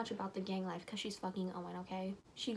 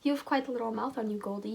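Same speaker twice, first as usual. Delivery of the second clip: smirking Owen; 5 dB louder, faster than usual. Acted. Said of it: "he says with a smirk".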